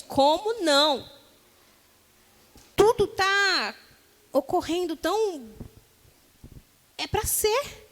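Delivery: protesting to God that it was meant to be, incredulous; incredulous plea. Retold or imitated. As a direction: plead with God, bewildered. Imitating a pleading believer.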